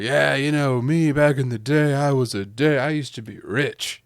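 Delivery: mock drunk boasting at the bar; crazy drunk. Drunk wife boasting of her rich past at the bar, hammed-up slur. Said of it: "Like a crazy drunk".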